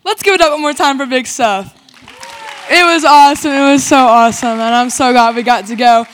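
loud, upbeat stage energy for the room; cheering emcee celebrating the camp; hyped crowd call. Real, not acted. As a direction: pump up the youth group like an emcee. Youth pastor hyping the crowd.

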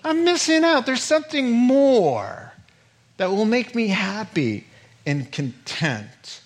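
hammed-up longing son; restless son. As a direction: play the discontented son yearning. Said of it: "He thinks to himself".

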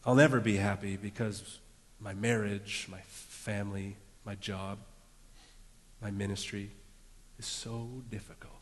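low, fading woe-is-me list; self-pitying. Acted. Preacher voicing self-pity over marriage and job, downcast.

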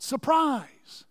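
high-pitched call at ordinary volume; mock shout. Guests greeting Agnes at her surprise party, high mock shout. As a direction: imitate a crowd's surprise shout without full force. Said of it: "they all shout".

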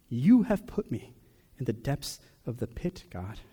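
psalmist's lament. Retold or imitated. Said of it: "the psalmist says".

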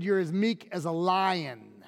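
put-on understated, assured delivery of an old saying; measured quote. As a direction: settle evenly into "lion". Ancient saying answering the mouse one.

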